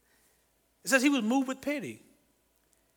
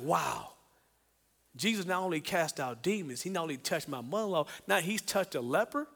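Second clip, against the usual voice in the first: awed murmur; 5 semitones lower, 9 dB quieter than usual. Pretend. Disciple marvelling to himself.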